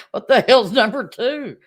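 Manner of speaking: put-on kids asking.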